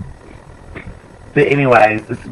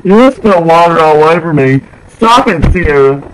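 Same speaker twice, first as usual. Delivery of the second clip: higher-pitched exasperated complaint; scolding; 4 semitones higher, 4 dB louder than usual. Real, not acted. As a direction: tell her off for the spill. Scolding over spilled water.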